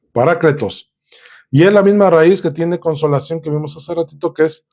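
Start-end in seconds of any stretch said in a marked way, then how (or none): 0.1-0.9 parácletos con la A tónica y clara; acento en la A. Shown as a demonstration. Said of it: "lleva acento en la A". (parácletos, acento en la A)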